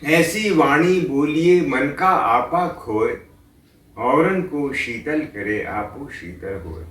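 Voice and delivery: slow, measured couplet recitation; recited doha. Acted. Preacher reciting Kabir's couplet to listeners, slow and measured. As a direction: let the couplet flow slowly.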